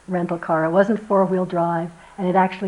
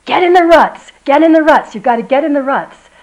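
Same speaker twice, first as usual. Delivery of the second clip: higher, louder retold yell of a friend; imitated shout; 6 semitones higher, 11 dB louder than usual. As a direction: call it urgently from the car ahead. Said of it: "Grove kept going".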